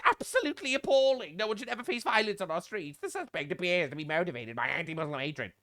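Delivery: a hint of a prim statement read in a put-on voice; mock politician voice. Mocking Keir Starmer's statement, lightly put-on. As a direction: parody the bland press release.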